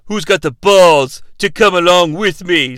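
low, menacing wrestling promo; Vampiro impression. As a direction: dare them in a heel growl. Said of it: "this Vampiro impression".

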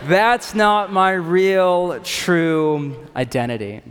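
slow, loud, defiant insistence; punk rock defiance. Retold or imitated. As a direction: stamp each word like a rebel. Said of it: "it's so punk rock".

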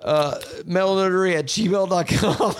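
hint of a cocky metal band drummer; drummer impression. Podcaster doing the drummer to listeners, lightly voiced. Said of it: "This is Lars".

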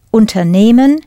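Unternehmen with the stress on the first syllable, Un. Shown as a demonstration. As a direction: lean hard on the opening "Un" of Unternehmen. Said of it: "Listen to where I put the stress".

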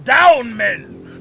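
high, loud order to get down; sharp shout. Acted. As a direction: snap it at the men. Captain orders men down.

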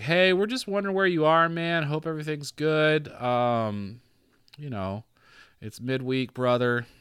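high, upbeat imitation of a caller; lightly hammed-up buddy voice leaving a voicemail; mock friendly church guy.

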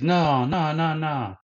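high-pitched, quick protest of no; insistent refusal. Retold or imitated. Quoting her firm refusal.

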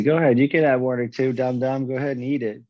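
lightly voiced tempter urging someone on; instigating devil. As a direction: play the devil on the shoulder, goading. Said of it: "just instigate and say".

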